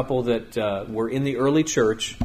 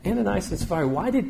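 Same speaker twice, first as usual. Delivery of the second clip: higher-pitched stern challenge; Peter confronting; 5 semitones higher, faster than usual. Retold or imitated. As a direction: call them out before everyone, a touch stern. Peter confronting liars before church.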